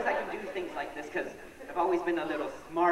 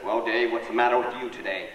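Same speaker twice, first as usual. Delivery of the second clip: principal's voice; 8 semitones lower than usual. Retold or imitated. Comedian voicing the principal.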